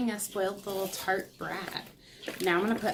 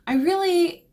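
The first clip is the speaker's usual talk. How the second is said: excited outburst; 11 semitones higher, 10 dB louder than usual. Real, not acted. Sudden high burst.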